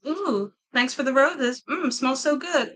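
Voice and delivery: slow, drawn-out satisfied voice; slow dreamy voice. Pretend. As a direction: savor every word slowly. Acting TikTok reaction trend.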